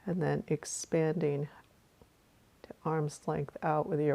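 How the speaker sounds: calm meditation guide with long pauses; guided meditation. Real, not acted. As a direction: guide listeners through a breath, unhurried.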